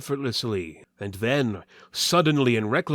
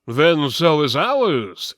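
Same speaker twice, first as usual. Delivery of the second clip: louder, slow defiant reply; gruff retort; 4 semitones higher, 8 dB louder, slower than usual. Acted. Waltiver answering the twin, loud and slow. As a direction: stand your ground. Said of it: "said Weltiver".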